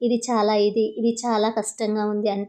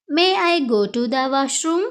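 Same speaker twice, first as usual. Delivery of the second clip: very slow, clear classroom English; slow model phrase; much slower than usual. Shown as a demonstration. Teacher modelling the phrase for Telugu students, slow and clear. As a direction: spell it out slowly for learners. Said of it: "అప్పుడు ఇలా అనాలి".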